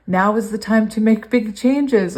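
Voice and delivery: lifted, eager reading of the card; excited. Real, not acted. Reader thrilled by the card's message, excited. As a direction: let the thrill of the sign come through. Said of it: "hear the excitement in my voice".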